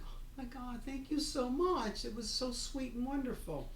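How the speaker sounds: re-enacted sweet, high-pitched appreciation; touched gratitude. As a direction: gush as if deeply flattered. Retold grateful reply to praise.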